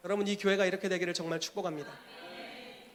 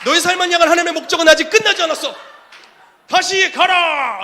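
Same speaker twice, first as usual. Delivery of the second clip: much louder and higher, fervent; shouted prophecy; 9 semitones higher, 13 dB louder than usual. Acted. Prophet sending the fallen believer back, shouting. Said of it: "다시 선지자에게로 보내요".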